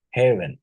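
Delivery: "heaven" with a short e in the first syllable; short vowel demo. Shown as a demonstration. Teacher contrasting similar spellings, "heaven" said with short eh. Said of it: "heaven is produced as a what?".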